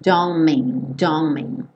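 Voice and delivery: "Don't mean" with the T dropped, N running into M; linked pronunciation. Shown as a demonstration. Teacher showing learners how N joins M, linked pronunciation. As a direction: say "Don't mean" as one joined sound. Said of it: "o N do don't já junta com o M do mean".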